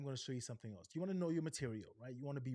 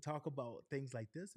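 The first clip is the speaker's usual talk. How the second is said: raised voice. Shown as a demonstration. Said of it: "I'm gonna raise my voice".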